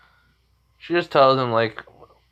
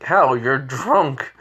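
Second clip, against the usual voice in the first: acted indignation; 3 semitones higher, 3 dB louder, much slower than usual. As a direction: throw it back at him, voice raised. Naruto confronts drunk Jiraiya.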